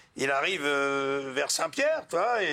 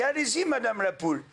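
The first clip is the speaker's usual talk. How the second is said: mock midwife urging; 8 semitones higher than usual. Rooster coaches laying hen.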